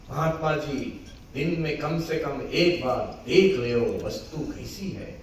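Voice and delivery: lightly voiced rural Hindi accent; rural Hindi twang. Sadhu advising a fellow monk, rural Hindi twang. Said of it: "rural twang in his Hindi".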